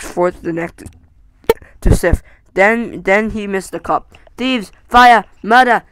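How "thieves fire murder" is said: sudden furious cry, louder on Fire; dragon's outraged shout. Acted. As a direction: bellow it like a robbed dragon. Dragon discovers the stolen cup.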